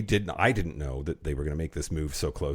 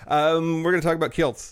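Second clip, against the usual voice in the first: excited; 11 semitones higher, 5 dB louder than usual. Acted. Hammed-up topic announcement.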